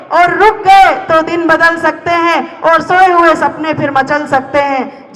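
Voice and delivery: dramatic spoken-word verse, pleading; poem recitation. Acted. Poet talking to someone about to die, dramatic recitation. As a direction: recite it as an urgent, rhythmic appeal.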